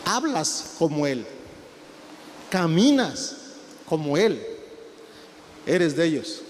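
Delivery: put-on elderly accuser. Old person accuses Peter.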